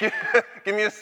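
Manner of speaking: high cheer call broken by a laugh; laugh, then yell the prompt. Pretend. Speaker cracking up while leading the crowd, cheer yell. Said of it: "I'm gonna yell something out".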